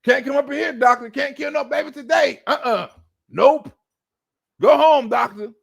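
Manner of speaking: mock clinic blocker. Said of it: "in front of the abortion clinic".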